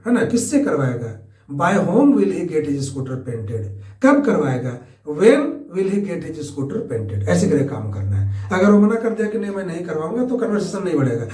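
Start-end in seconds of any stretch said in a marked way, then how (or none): 1.5-7.3 very slow, each word separate; slow dictation. Shown as a demonstration. Teacher showing students the question forms, slow dictation. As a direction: lay the questions out slowly for learners.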